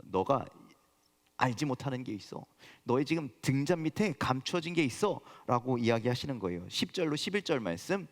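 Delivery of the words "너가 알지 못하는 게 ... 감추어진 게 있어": voice of God. Retold or imitated. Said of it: "하나님께서 진실에 대해서 말씀하시죠".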